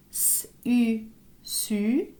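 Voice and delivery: hissed S, then French U, blended into "su"; teacher sounding out "su" sound by sound; syllable blending demo. Shown as a demonstration. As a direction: sound out S, U, then join them as "su". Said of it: "ça se lit comme ça".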